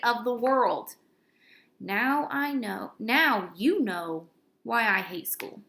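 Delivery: lively storybook narration; animated read-aloud to a class; reading to children. A narrator's reading. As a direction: read it like a fun kids' chapter book. Reading a kids' book aloud.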